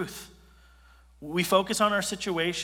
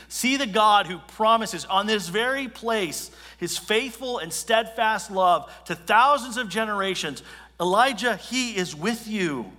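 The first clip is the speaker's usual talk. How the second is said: God speaking to Elijah; 4 semitones higher, 5 dB louder than usual. Acted. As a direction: declare it like God reassuring his prophet. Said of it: "he's saying to Elijah".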